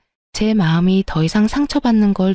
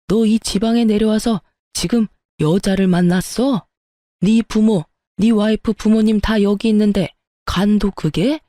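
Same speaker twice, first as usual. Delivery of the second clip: father-in-law snapping at son. Acted. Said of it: "버럭하더군요".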